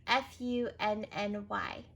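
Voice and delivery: F U N N Y letter by letter; careful spelling; spelled out. Shown as a demonstration. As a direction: spell it out slowly.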